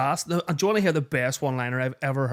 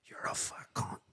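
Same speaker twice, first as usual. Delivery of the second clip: mocking kid; 5 semitones higher, 7 dB quieter than usual. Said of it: "he says to him".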